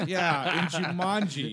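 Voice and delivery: high, loud laughing agreement. Real, not acted. Admitting to friends he cried at Jumanji, laughing. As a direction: laugh through the words.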